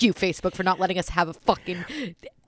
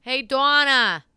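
drawn-out, raised call; higher, sustained hail; 4 semitones higher, 4 dB louder, much slower than usual. Real, not acted. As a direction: call her from another room. Calling out to Donna.

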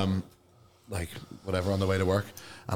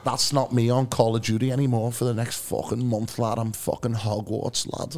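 lightly imitated Scouse cabbie; Scouse accent. Passenger retelling the taxi driver's chat, light Scouse accent. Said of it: "Is that a bad Scouse accent".

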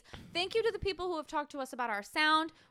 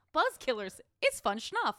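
catchphrase delivery. Acted. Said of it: "I just thought of, like, a catchphrase".

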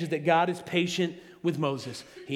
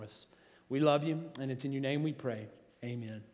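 prayer; 2 semitones lower than usual. Acted. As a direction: pray gently on behalf of the room. Leads congregation in prayer.

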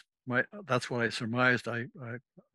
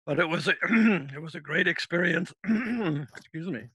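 choked up; 5 semitones higher, 3 dB louder than usual. Real, not acted. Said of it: "I'm getting emotional about this".

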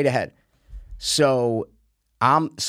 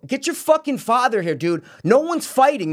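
much higher re-enacted yell; exasperated order; 10 semitones higher, 3 dB louder than usual. Golfer telling son to fetch his father, exasperated. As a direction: insist on it with pitch way up.

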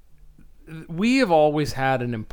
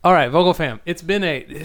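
louder, projected podcast host greeting; 5 semitones higher, 7 dB louder than usual. Shown as a demonstration. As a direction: launch into your on-air host voice. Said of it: "go into my actual podcasting voice".

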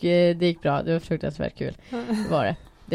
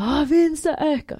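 high, raised mock command; acted exasperated urging; retold angry order; 10 semitones higher, 4 dB louder, slower than usual. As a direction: call it out sharply, much higher. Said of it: "Jag var så arg".

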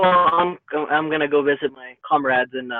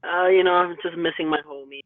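underwater tin can. Real, not acted. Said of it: "You sound like you're in an underwater tin can".

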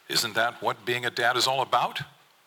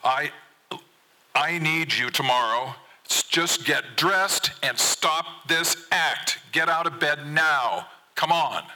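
high, slow, hammered-out shout; angry yelling back; 6 semitones higher, 3 dB louder, slower than usual. A narrator's reading. Father orders son out of bed, yelling angrily. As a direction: yell to outdo him, word by word. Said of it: "I yell back, proving that I can yell louder".

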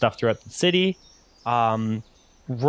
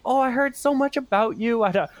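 high, gushing squeals of delight; thrilled parents fussing over their child's friends; excited parents; 13 semitones higher than usual. Acted. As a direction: coo over meeting the new friends. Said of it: "they're just like".

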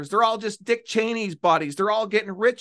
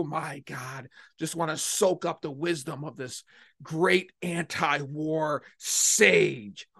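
hushed, slow mock reverence; mock awe; 2 semitones lower, 5 dB quieter than usual. Mocking starry-eyed staffers, hushed mock awe. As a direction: breathe it like a starstruck fan.

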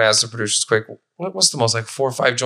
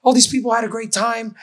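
put-on scolding old lady; 11 semitones higher than usual. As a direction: lecture the drunk like a stern old auntie. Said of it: "this lady made a great point".

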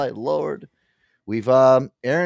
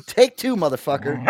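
mock outburst; 4 semitones higher than usual. Dog's tantrum in studio.

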